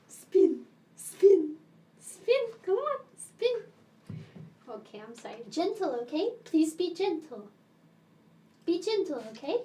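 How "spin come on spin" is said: much higher, eager coaxing; coaxing pet voice. Real, not acted. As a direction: cheer the cat on in a high voice.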